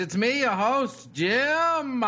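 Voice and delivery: put-on old-time radio host intro; old-timey radio voice. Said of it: "I like the old-timey radio".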